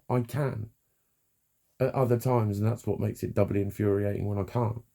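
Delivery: normal talking voice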